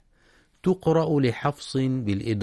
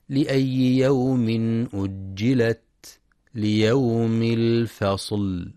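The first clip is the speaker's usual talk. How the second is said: Quran recitation; slower than usual. Shown as a demonstration. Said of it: "ينتبه القارئ لشدة وهمس التاء".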